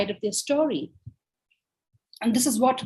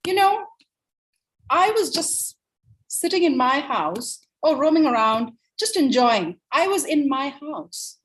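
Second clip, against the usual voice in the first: lightly voiced wolf, higher pitched; aggrieved wolf; 4 semitones higher than usual. Wolf tells his side of the story, mildly aggrieved. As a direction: plead your own case as the misjudged wolf. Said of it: "So wolf says".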